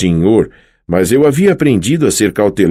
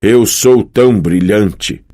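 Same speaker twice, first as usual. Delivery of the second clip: slow, proud haiku line; smug, drawn-out verse; announced haiku; 2 semitones higher, slower than usual. Acted. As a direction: announce it grandly like a triumphant poet. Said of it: "Já sei, anunciou Apolo".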